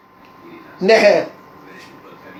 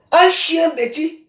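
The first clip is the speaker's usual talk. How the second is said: slow contemptuous repeat; slow mocking drawl; 4 semitones higher, much slower than usual. Real, not acted. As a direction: stretch out chien bêtis slowly and with scorn. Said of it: "slow drawn-out repeat".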